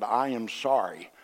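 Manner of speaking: mock grudging apology. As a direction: force out the apology unwillingly. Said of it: "I grudgingly stuck my hand out".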